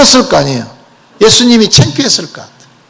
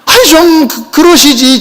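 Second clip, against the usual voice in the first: mock grumbling; 7 semitones higher than usual. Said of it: "지금 불만이 가득합니다".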